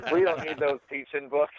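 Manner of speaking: repeating the West Texas twang. Retold or imitated. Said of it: "I want that phrase on a t-shirt".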